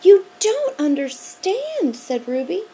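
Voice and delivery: loud, high stammering alarm; too scared to find the word; girl shouting at the monster teacher. A narrator's reading. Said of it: "shouted Sherry Shackmeyer".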